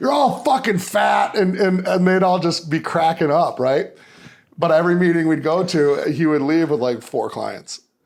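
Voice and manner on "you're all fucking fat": rough, raspy, brash coach bark. Retelling what a man told newcomers at meetings, imitating his raspy voice. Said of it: "he's got a real graspy voice".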